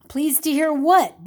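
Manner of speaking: loud, slow booming question. A narrator's reading. Mister Reputable calling across the restaurant, booming loud. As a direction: boom it across the room. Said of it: "boomed a voice".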